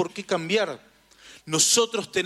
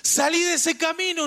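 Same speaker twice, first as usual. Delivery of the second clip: high-pitched warning call; 10 semitones higher than usual. Acted. Holy Spirit warning someone off the road, high urgent call. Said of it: "Y él me estaba diciendo".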